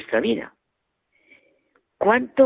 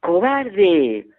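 louder, hurled insult; angry child shouting coward; 3 semitones higher, 4 dB louder than usual. Retold or imitated. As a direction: yell it in anger at the hills. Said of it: "Enfadado, volví a gritar".

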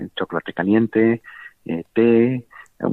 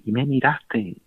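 tearful, higher; 5 semitones higher, slower than usual. Retold or imitated.

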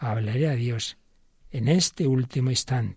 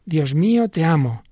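urging; 4 semitones higher, 5 dB louder than usual. Acted. Pope urging Guitton to pray.

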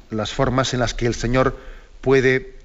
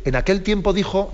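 raised, sing-song Gospel proclamation; liturgical reading voice; 7 semitones higher than usual. Retold or imitated. Priest on the radio imitating how the Gospel is announced, raised and sing-song. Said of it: "El salto de".

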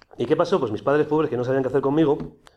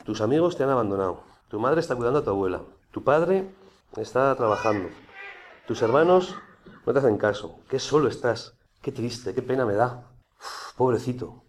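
pitying inner voice; 2 semitones lower, 4 dB quieter than usual. Retold or imitated. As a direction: coax him gently, as if feeling sorry for him. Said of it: "Yo estaba en mi habitación y me decía".

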